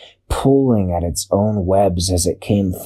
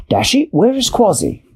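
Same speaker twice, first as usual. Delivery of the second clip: much higher worried question; high penguin voice; 12 semitones higher than usual. A narrator's reading. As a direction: ask it like a small anxious penguin. Peso asks Dashi.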